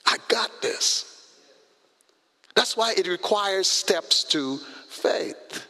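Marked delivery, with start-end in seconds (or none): 0.1-1.1 God's calm voice. Pretend. God voiced quietly and slowly.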